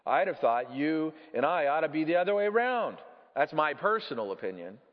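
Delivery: lightly voiced ghost airing a grievance; a touch of self-righteous indignation; affronted big ghost.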